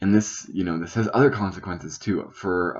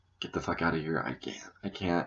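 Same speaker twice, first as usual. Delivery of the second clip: acted stutter, much quieter; 8 dB quieter than usual. Recalling telling mom to leave while locked in the closet, reenacting past stuttering. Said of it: "I was stuttering".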